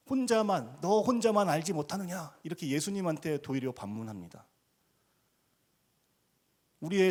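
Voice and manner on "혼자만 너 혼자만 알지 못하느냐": high, loud, indignant retort; retold shout. Disciples shouting back at Jesus in protest, loud and high. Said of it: "이렇게 소리 지르는 거예요".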